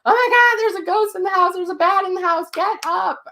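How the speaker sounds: high, loud panicked yelling; yelling at husband at 2 a.m., high and loud; retold scream. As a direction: wake him up screaming in alarm. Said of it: "I'm screaming two in the morning".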